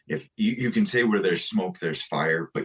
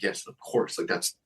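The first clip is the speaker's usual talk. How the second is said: climbing much higher with eager relief; eager yes; 12 semitones higher than usual. Retold or imitated. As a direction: yes rising into a thrilled squeak. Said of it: "And I'm like".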